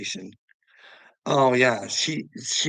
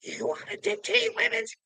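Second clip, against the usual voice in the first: much higher mocking squeal of her voice; mocking Joanna; 4 dB quieter than usual. Mimicking Joanna's retort, high mocking voice. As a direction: parody her, shrill and whiny. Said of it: "and Joanna's like".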